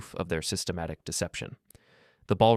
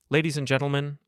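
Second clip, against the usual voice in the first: higher-pitched call to a crowd; 7 semitones higher than usual. A narrator's reading. Miles to the chaotic ballroom, calling out. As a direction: address the whole ballroom, pitched up. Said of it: "I called out".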